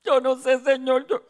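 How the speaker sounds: retold fearful stammer. Answers God, admitting fear.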